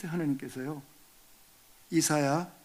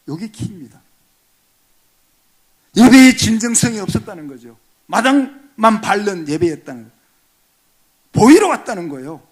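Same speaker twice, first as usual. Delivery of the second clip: preach; 3 semitones higher, 11 dB louder than usual. Acted. Preaching emphasis.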